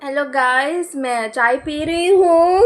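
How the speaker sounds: a hint of a perky vlogger; mock vlogger intro. Mocking zoomed-in vloggers with a lightly perky greeting. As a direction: chirp it like a cheesy vlog opener. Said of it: "So it's like".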